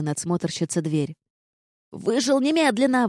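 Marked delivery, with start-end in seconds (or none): 1.9-3.1 high outraged command to get out; indignant order. Acted. Gargoyle orders Vard out of women's barracks, high indignant command. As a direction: order him out, scandalized. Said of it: "возмутилась она".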